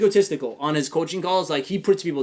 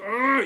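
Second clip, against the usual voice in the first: higher-pitched growly "ugh" of annoyance; bothered groan; 8 semitones higher than usual. Retold or imitated. Host acting out being bothered by someone, exasperated groan. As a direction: groan it out as if someone got to you. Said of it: "So when I'm bothered".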